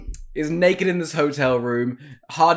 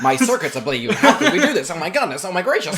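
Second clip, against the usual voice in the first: hammy robot panic; 3 semitones higher, faster than usual. Pretend.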